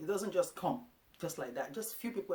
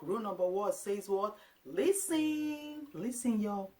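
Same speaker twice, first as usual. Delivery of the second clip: high, louder call for attention; 6 semitones higher, 5 dB louder, slower than usual. Retold or imitated. Mom calling her boys to hear rule one, high and loud. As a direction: round up the kids to listen.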